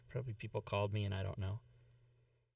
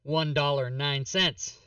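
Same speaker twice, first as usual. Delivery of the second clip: movie line quote; 4 dB louder than usual. Retold or imitated. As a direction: recite it like the movie. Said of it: "That was the line".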